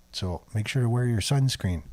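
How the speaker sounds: dry joke, delivered straight; understated sarcastic aside; deadpan sarcasm. Real, not acted. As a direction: offer mock advice with a straight voice. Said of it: "That's sarcasm".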